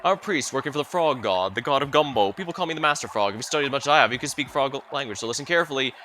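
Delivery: frog priest proclaiming his mastery; a hint of a self-important frog sage; lightly voiced master frog. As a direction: teach frog language with lightly acted authority.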